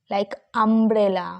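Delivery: umbrella said very slowly and clearly; slow example word. Shown as a demonstration. Teacher slowly modelling the word for students. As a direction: stretch umbrella out for the class. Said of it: "ইউর উচ্চারণ আমরা করব আ".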